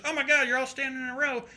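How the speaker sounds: high-pitched imitation of an eager drunk; drunk fan. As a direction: put on an excitable drunk guy's voice. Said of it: "And the guy's drunk".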